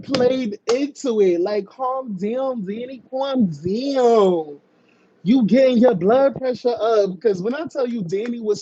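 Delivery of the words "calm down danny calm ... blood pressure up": slightly raised, drawn-out coaxing; playful mock soothing. Host playing along with a screaming caller, mock soothing. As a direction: lightly tease while pretending to soothe.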